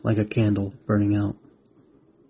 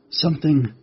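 higher voice, straining with effort; struggling; 6 semitones higher, 3 dB louder than usual. A narrator's reading. Spider wrestling the writhing mantis, high effortful voice. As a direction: force the word out mid-struggle. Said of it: "the spider struggled with the writhing mantis".

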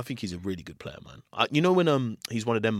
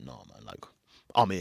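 stern; 4 semitones lower, 4 dB quieter than usual. Retold or imitated. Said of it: "his face was just so stern".

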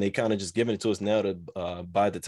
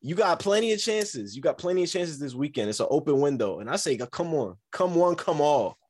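hyped-up champion trash talk; wrestling promo; 3 semitones higher than usual. Acted. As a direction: cut a promo like a cocky wrestler. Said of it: "this man cutting a promo right now".

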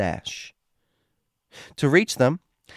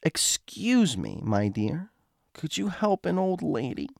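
put-on weak old lady voice; 3 semitones higher, 5 dB quieter than usual. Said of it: "deceptively weak".

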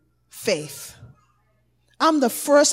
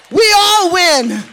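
triumphant shout; 6 semitones higher, 7 dB louder than usual. Real, not acted. Preacher repeats climax.

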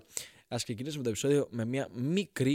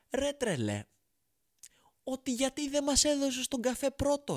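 outraged caveman; 11 semitones higher than usual. Acted. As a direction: scold God like a furious caveman. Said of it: "γυρνάει ο Homo habilis ο Κώστας και του λέει". (πολύ ψηλό, αγανακτισμένο παράπονο του Κώστα)

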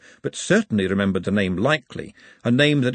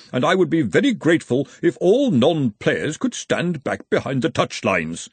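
mildly raised, higher announcer's voice; shouting over crowd; 4 semitones higher than usual. A narrator's reading. Former dean asks non-players to leave the pitch, raised voice. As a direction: project pompously to a crowd, short of a full shout. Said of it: "shouting to make himself heard".

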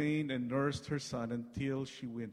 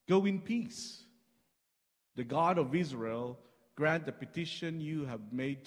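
mild priestly blessing; 2 semitones higher, 5 dB louder than usual. Acted. Priest Eli blessing the troubled woman, raised voice. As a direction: send her off with a lifted blessing.

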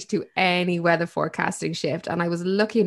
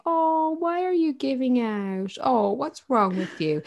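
put-on soothing a baby; 6 semitones higher, slower than usual. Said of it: "if they were crying, we'd say".

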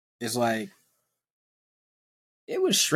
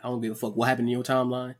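quick, dismissive retort; E A pushing back. Retold or imitated. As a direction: brush him off fast. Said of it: "I'd be like".

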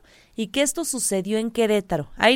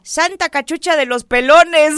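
mock exclamation; 3 semitones higher, 8 dB louder than usual. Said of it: "Yo decía".

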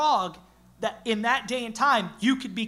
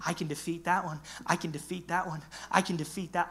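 God's confident voice; 3 semitones lower, 7 dB quieter than usual. Retold or imitated.

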